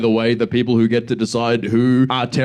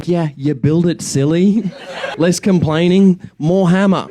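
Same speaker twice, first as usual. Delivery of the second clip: higher, louder, condescending mock Pauline; 6 semitones higher, 3 dB louder than usual. Comedian voicing Pauline scolding Palestinians, higher and louder. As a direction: talk down to them like a bossy aunt. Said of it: "Pauline's like".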